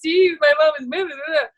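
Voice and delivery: mock a child's protest, trailing into blahs; upset kid. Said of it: "they were so upset".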